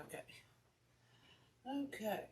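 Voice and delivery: soft unvoiced okay; whispered okay. Real, not acted. Checking the live stream, whispered okay. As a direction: whisper it to yourself.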